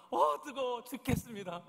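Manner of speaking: hammed-up grumbling about heat; acted heat complaint. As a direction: whine as if scorched by the sun. Acting Jonah suffering in the heat.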